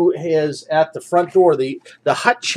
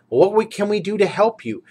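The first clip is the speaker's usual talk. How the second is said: higher, eager question; a hopeful adventurer offering help; party member asking; 7 semitones higher than usual. Acted.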